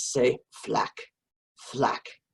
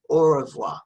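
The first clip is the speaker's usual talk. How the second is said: a louder, cheerful au revoir; loud goodbye; 7 dB louder than usual. Shown as a demonstration. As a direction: call au revoir out to the dog.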